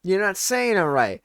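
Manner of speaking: hammed-up mom correcting the waiter; mock mom scolding. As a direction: lecture him like a smug mother. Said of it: "And then she's like".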